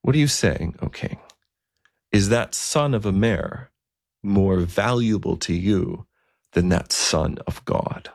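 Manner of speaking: put-on slow, measured reply of an old bishop; lightly voiced bishop, calm and grave; bishop's gentle rebuke. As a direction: answer slowly, letting the question sink in. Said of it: "he says".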